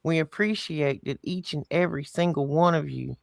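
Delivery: put-on easygoing Southern accent. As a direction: talk it out in a Southern accent, relaxed. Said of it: "let me put this in Southern for you".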